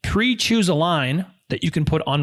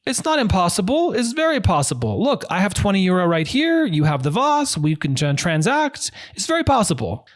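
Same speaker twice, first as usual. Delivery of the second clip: upbeat, insistent pitch to a seller, voice raised higher; confident sales pitch; 5 semitones higher than usual. Retold or imitated. Haggling for a lamp, he pushes the seller in a raised, confident voice. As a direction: convince him the deal is easy. His own reply to the seller.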